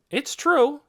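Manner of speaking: high, loud admission; bold confession. A narrator's reading. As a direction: own up for all to hear. Boy confesses before the crowd.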